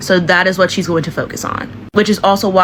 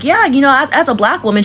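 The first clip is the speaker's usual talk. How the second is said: acted quote; 6 semitones higher than usual. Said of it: "And she'll be like".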